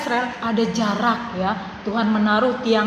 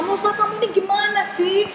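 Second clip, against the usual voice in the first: higher, frantic accusing whine; angry complaint; 4 semitones higher than usual. Retold or imitated. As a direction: blame Musa for dragging them out. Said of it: "Mereka marah-marah sama Musa".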